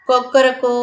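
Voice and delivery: mild cock-a-doodle-doo; imitated rooster crow. Shown as a demonstration. Teacher shows pupils how a rooster calls, light crowing imitation. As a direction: crow lightly, drawing out the last syllable. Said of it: "പൂങ്കോഴി വിളിക്കുന്നത് നമുക്ക് അറിയാം".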